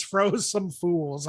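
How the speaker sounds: very slow, relishing delivery; slow savoring. Shown as a demonstration. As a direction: draw each word out slowly. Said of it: "I like that".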